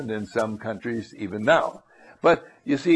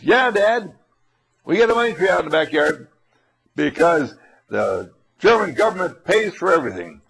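put-on eager kid; 3 semitones higher, 3 dB louder than usual. Son answering father eagerly.

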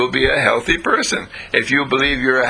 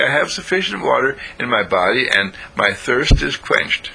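1 slow affirmation; 2 semitones higher than usual. Shown as a demonstration. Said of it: "I just say".

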